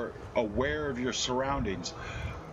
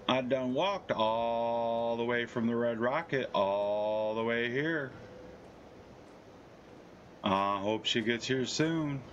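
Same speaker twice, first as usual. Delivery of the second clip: character voice; 4 semitones lower, slower than usual. Acted. In-game character monologue.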